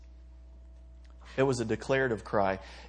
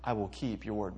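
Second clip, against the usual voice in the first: sincere vow; 4 semitones lower, 4 dB quieter than usual. Shown as a demonstration. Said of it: "Just say".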